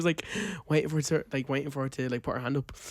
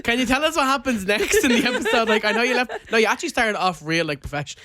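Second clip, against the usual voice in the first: imitating Brandon; 8 semitones higher, 5 dB louder than usual. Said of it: "Brandon's like".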